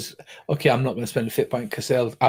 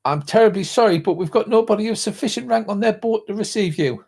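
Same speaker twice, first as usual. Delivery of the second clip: polite official; 8 semitones higher than usual. Acted. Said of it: "he goes".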